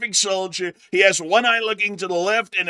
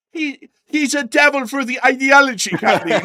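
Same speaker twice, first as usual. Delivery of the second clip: emphatic; 9 semitones higher, 7 dB louder than usual. Acted.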